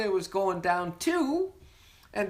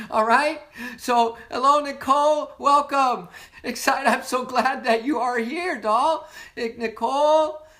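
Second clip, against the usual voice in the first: louder, eager greeting; bright hello to a friend; excited welcome; 3 semitones higher, 6 dB louder than usual. Real, not acted. Host welcomes Nicole to the meeting, excited.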